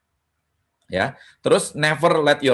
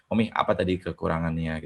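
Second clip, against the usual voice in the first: quiet question to wife; 6 semitones lower, 7 dB quieter than usual. Retold or imitated. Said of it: "saya ngomong sama istri".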